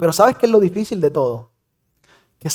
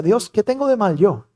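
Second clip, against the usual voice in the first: retold tearful prayer; 4 semitones higher than usual. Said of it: "lloraba y decía".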